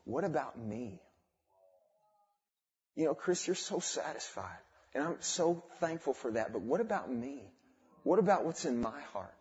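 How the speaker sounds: inner voice. Retold or imitated. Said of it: "there started to be this speaking".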